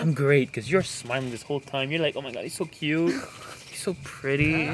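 lightly put-on Valley Girl; Valley Girl accent. Teasing co-host as Amanda, light Valley Girl accent. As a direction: gush in a mild mock Valley Girl accent. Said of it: "You wanna hear the Valley Girl accent".

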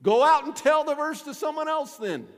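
high, loud comeback; emphatic retort. Acted. Pastor answering people tired of hearing the verse, emphatic retort.

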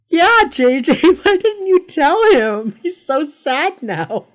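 loud, high-pitched wail of reproach; mock scolding. Viewer scolding J J for Hotch, loudly mock-indignant.

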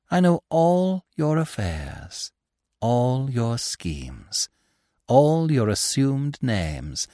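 hollow, every syllable stressed; hollow suit of armor voice, each syllable weighed. Acted. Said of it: "in a hollow voice, laying stress on every syllable".

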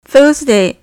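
Thursday with th tongue between teeth. Shown as a demonstration. Teacher shows the th sound to students, Thursday said with tongue between teeth. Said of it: "舌を噛んでThursっていう風に発音する".

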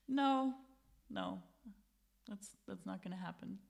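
soft, quiet, calm no; very calm refusal. Retold or imitated. Strangers calmly refusing to let the girls leave, soft and quiet. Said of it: "keep responding in this very calm way".

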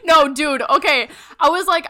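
laughing. Real, not acted. Laughing retelling the prank.

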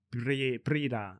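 "Prida" said slowly, syllable by syllable, in a strange voice; odd slow pronunciation. Real, not acted. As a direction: drag out "Pri-, Prida" hesitantly and slowly. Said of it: "Why'd you say it like that".

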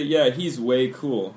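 slow, careful model sentence; slow demo. Shown as a demonstration. Teacher modelling a phrase for students, slowly. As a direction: spell it out slowly for the learners. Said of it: "So we say".

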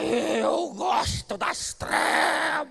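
high, slow, drawn-out possessed scream; possessed woman screaming. Retold or imitated. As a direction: cry it out like someone possessed. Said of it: "começou a gritar". (grito lento e agudo de mulher possuída)

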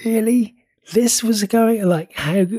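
a baffled "how could that be?"; high, bewildered mock outrage; incredulous disbelief. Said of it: "sometimes I'm like".

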